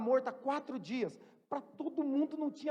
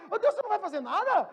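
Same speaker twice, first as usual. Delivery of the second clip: mock whiny prayer; 3 semitones higher, 6 dB louder, faster than usual.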